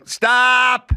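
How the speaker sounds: high, loud barked stop; sharp stop. Retold or imitated. Teacher halting a student's scene, sharp loud stop. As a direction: cut the scene off like a strict teacher.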